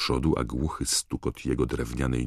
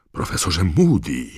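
higher, louder appalled call; horrified voice; 4 semitones higher, 5 dB louder than usual. A narrator's reading. McGonagall catches Moody tormenting the ferret, horrified. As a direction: call out the name in horror. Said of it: "rozległ się przerażony głos".

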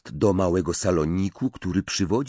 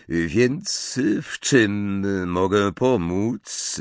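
slow cool drawl; 2 semitones higher, 3 dB louder, much slower than usual. Acted. Snape asks coolly.

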